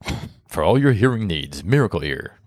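jingle-like sponsor announcement, pitch swooping on the brand name; hammed-up commercial voice; mock ad read. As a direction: play a radio sponsor spot, stretching the name.

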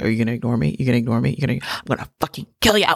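a mock menacing snap at someone ignoring her; mock threatening. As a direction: play up the threat half-jokingly. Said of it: "I'm just one of those people that is just like".

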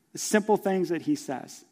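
ordinary talk

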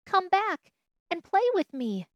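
high, loud plea; calling out. Acted. Little rabbit begs the fleeing rabbits to play, calling out. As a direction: call after someone running off. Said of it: "called the little rabbit".

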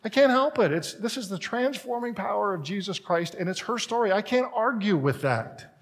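high, choked-up quoting of himself; emotional. Retold or imitated. Pastor recalling his teary reply to his wife, high and moved. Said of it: "I'm just like".

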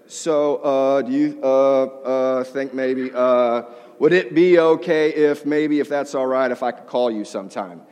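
stammering, hesitant ask; nervous stumbling. Retold or imitated. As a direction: stumble over every word nervously. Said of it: "completely me stumbling over all my words".

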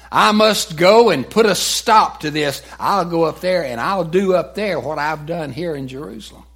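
loud, high, determined outburst; Saul's angry vow. Retold or imitated. Saul vows to crush the believers, loud and high. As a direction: spit out his vow to stop them.

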